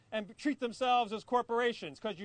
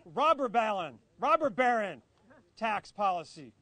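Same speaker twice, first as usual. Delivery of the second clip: "robber" hit first and hardest, "baron" falling away; stress on robber; 3 semitones lower than usual. Real, not acted. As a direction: lean on the word "robber". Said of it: "Emphasis on the robber".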